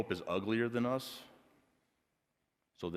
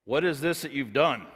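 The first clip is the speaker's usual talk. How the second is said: raised and pressing; God questioning the woman, raised and firm; God asking; 5 semitones higher, 5 dB louder than usual. Acted. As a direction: ask it firmly, higher and louder. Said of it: "Then the Lord said to the woman".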